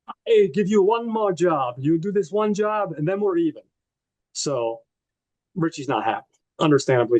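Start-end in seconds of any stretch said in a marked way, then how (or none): 0.1-3.6 put-on hammy Russian boss accent; horrible Russian accent. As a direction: lay down terms in a clumsy Russian accent. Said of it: "I'm doing a horrible accent".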